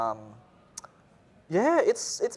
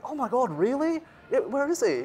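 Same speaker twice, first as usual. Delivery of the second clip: fake excitement; 11 semitones higher than usual. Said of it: "I'm like".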